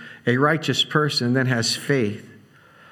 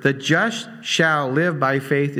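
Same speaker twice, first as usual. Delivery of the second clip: THE JUST SHALL LIVE BY FAITH slowly, each word given weight; slow, deliberate weight on every word of "the just shall live by faith"; every word stressed; slower than usual. Shown as a demonstration. Preacher showing each word is critical, every word stressed. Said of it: "that every word".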